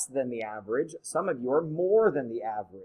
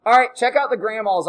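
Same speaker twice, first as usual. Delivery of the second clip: grandma voice; 8 semitones higher, 10 dB louder than usual. Shown as a demonstration. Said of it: "Was it my grandma voice?".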